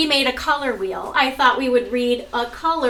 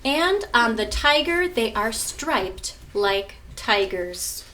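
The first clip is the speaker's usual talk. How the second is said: slow, measured storybook reading with pauses; reading to children; slower than usual. Acted. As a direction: read it out to the class like a picture book. Continues reading picture book.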